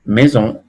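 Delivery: maison with nasal on, mezɔ̃; French maison. Shown as a demonstration. Teacher to class, modelling French maison. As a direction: end maison in the nose. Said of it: "Por ejemplo".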